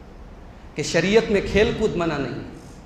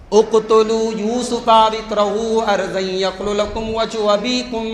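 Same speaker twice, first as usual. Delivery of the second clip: Quranic recitation; 3 semitones higher than usual. Acted. Preacher recites the brothers' verse in melodic tilawat.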